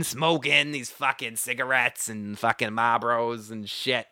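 put-on lazy heavy Boston accent; sloppy, unfiltered Boston accent. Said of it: "my Boston accent comes out".

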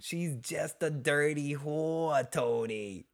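slow, drawn-out sneering repeat; repeat the Tywin line. Shown as a demonstration. Host repeats Tywin's line on his cohost's request, slow and sneering. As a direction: drag out the insult. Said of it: "Say it again".

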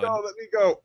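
hammed-up plea. Action-movie parody voice.

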